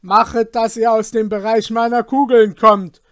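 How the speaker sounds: loud, high commanding threat; thundering voice. Acted. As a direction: thunder down from the window like a lord. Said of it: "mit donnernder Stimme".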